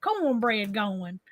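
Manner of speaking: playful West Virginia country hospitality; country accent. Acted. Welcoming guests with fried taters and cornbread, playful country accent. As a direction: offer supper in a put-on country accent. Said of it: "like that country accent".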